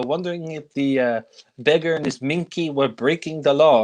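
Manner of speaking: hint at Clouseau's mock French; Clouseau's French accent. Clouseau explaining himself to his boss, lightly imitated French accent. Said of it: "the exaggerated French accent is just perfected".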